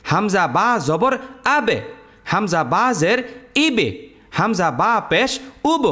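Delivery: আবে, ইবে, উব with the ব bounced off as a small echo; qalqala echo. Shown as a demonstration. Teacher demonstrates qalqala on আবে, ব echoing. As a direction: let the ব in আবে ইবে উব rebound. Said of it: "উচ্চারণটা এরকম হবে".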